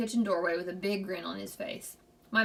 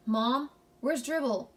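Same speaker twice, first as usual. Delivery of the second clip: higher, slow hollered call to Mom; hollering for Mom; 4 semitones higher, slower than usual. A narrator's reading. Boy rushing into the kitchen hollers to his mother. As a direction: call out anxiously across the apartment. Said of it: "and hollered".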